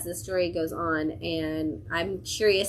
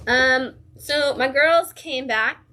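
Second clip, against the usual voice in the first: higher and louder, real fan excitement; excited; 4 semitones higher, 4 dB louder than usual. Real, not acted. Reviewer announces her favourite team's return, thrilled and louder. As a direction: gush about your favourite team coming back. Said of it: "I'm so excited".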